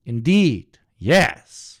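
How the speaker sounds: loud, weighty mock-sage agreement; pompous, emphatic affirmation; mock profound. Mocking fake-deep philosophical affirmation.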